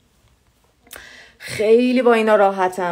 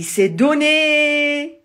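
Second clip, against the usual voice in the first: c'est donné high with stress on donné; high stressed model; 8 semitones higher, 4 dB louder, much slower than usual. Shown as a demonstration. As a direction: present c'est donné brightly. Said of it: "برای اینکه بگیم le prix c'est raisonnable". (c'est donné, aigu, accent sur donné)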